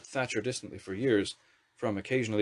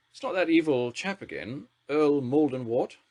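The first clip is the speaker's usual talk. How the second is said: much higher, slow grand lady's drawl; Thatcher's drawl; 5 semitones higher, 4 dB louder than usual. A narrator's reading. Prime Minister greeting the wizard minister with a haughty drawl. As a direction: look down on the new minister.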